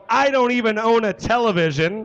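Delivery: calling out the show title with a big push; hype announcement. Real, not acted. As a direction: sell the name to the crowd. Host hyping the podcast name.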